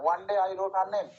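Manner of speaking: very slow, each word spaced out; slow verse recital. Shown as a demonstration. Teacher reciting a poem line to students, very slow and measured. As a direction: read the line out beat by beat. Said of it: "এর আগেরটা যেটা পড়লাম".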